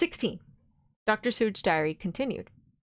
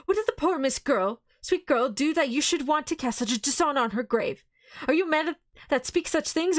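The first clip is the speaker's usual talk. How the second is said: higher, louder outraged pleading; passionate anger; 6 semitones higher, 3 dB louder than usual. Acted. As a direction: protect her grave with fury. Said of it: "cried Arthur in a storm of passion".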